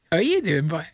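breathy whispered hello; whispered greeting. Real, not acted. Host greets taxi driver in a whisper. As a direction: whisper it playfully.

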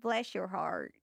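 a first try at a Southern "Bless your heart", still close to her own voice; trying a Southern accent. Retold or imitated. Copying the host's Southern phrase, a tentative try. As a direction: attempt the Southern phrase, not quite there yet. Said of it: "I'm getting there".

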